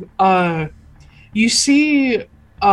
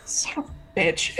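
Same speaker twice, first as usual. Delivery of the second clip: hushed, softer under-the-breath curse; whispered swearing; 2 semitones lower, 9 dB quieter than usual. Acted. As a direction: hiss it under your breath. NPC curses under her breath.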